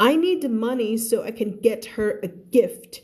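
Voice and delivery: careful, deliberate English story reading; spaced-out teacher's narration; slow model reading. Acted. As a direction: read slowly for learners, enunciating each word. Teacher reads dialogue aloud.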